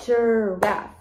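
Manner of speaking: Giraffe stretched into two separate beats; Giraffe, drawn out as ji-raffe; syllable by syllable. Shown as a demonstration. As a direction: hold the first syllable of Giraffe, then land the second. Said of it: "two syllables".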